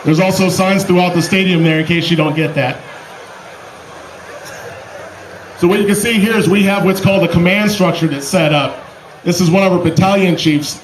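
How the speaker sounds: loud crowd announcement; announcer. Real, not acted. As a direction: project to the stadium crowd. Announces mock crash to crowd.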